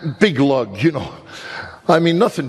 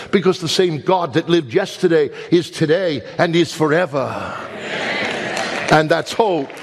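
raised, impassioned pulpit delivery; fervent preaching; 3 semitones higher than usual. Acted. Pastor preaching hope to his congregation, impassioned. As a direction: preach it out to the whole church.

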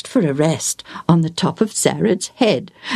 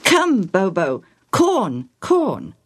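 slow, drawn-out coaxing call; coaxing a pet; 2 semitones higher, slower than usual. Acted. Joel offering corn to his parrot, coaxing. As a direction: call the bird over, word by word.

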